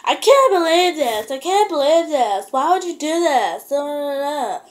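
high, loud, wailed complaint; hammed-up outraged whine; mock outburst, high-pitched and loud; imitating distraught woman. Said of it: "she was like".

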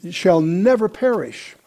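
slowed, with weight on never; slow, firm "never"; emphatic never. Shown as a demonstration. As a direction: press never to show the double negative. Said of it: "that's a double negative".

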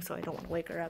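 soft whisper so the dog sleeps on. Real, not acted. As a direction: hush it so nobody wakes. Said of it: "She's currently sleeping".

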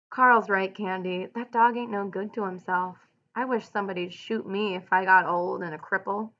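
steady read-aloud narration with lightly voiced ranch hands; story narration. A narrator's reading. Teacher reading the novel aloud to students. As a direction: read the bunkhouse scene to the class.

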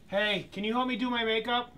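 high, loud put-on voice; sing-song celebrity impression; Caitlyn Jenner voice. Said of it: "true to Caitlyn Jenner".

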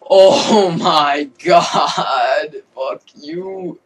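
loud slow scream rising to a very high curse; furious scream. Real, not acted. Gamer dying again, loud then very high furious scream. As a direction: let it all out. Another death.

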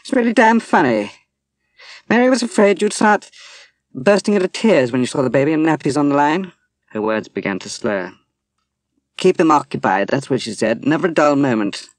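very high, loud, manic tipsy rant; near-shrieking, laughing at her own despair; hysterical laughing talk. Acted. Drunk woman to Dwight, hysterical about Mary's fears. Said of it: "She laughed hysterically".

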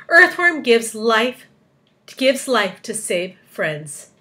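slow, spaced-out proclamation; headline announcement. A narrator's reading. Miss Spider imagining the newspapers, proclaiming.

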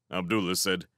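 usual speaking voice

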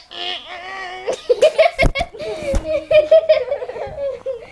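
drawn-out noise breaking into laughter; mock tummy noise turning into giggles; imitated stomach noise. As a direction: mimic a noisy stomach, then crack up. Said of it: "It was just like".

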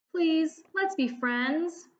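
tearful plea. Acted. Arthur pleading, crying.

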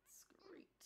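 soft whispered aside. Real, not acted. Baby asleep nearby.

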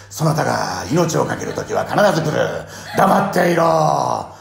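loud, slow stern rebuke; stern scolding. Retold or imitated. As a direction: scold her firmly. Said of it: "なんて渡部篤郎さんね".

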